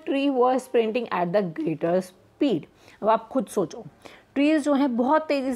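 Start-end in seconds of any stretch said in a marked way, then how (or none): 0.1-2.6 slow, deliberate reading of the example. Shown as a demonstration. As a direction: read the example line slowly. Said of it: "For example". (धीमे से उदाहरण पढ़ना)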